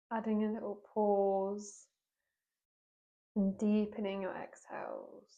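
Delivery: unhurried yoga teacher guidance with long pauses; guided yoga meditation. Real, not acted. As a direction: guide them gently into breath and movement, leaving space between phrases. Leads a seated yoga meditation.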